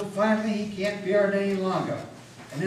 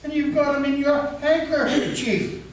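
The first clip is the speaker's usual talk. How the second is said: frightened; 10 semitones higher, 6 dB louder than usual. A narrator's reading. Frightened farmer accusing stranger.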